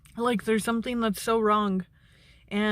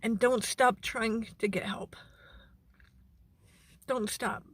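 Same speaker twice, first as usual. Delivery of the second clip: whispering; 5 dB quieter than usual. Real, not acted. Urging viewers, emotional, hushed.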